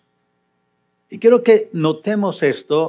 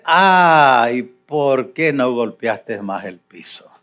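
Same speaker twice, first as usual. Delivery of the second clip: mock gentle "Ay, ¿por qué no golpeaste más el piso?", softer and slow; soft whiny complaint; 4 semitones lower, slower than usual. Shown as a demonstration. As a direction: say it meekly, as the wrong way. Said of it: "No, está hablando enojado". (queja suave y lenta, a propósito equivocada)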